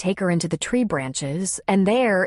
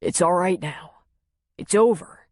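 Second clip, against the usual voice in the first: gentle reassurance. Acted.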